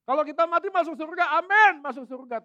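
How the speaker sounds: mock complacent Christian. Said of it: "beberapa orang mengatakan".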